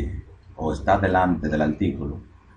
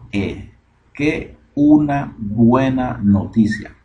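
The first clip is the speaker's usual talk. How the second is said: "qué una buena noticia" slowly, each word separated and pitched up; 6 semitones higher, 4 dB louder, much slower than usual. Shown as a demonstration. Teacher giving the literal translation, "qué una buena noticia" word by word. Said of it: "Esto es palabra por palabra".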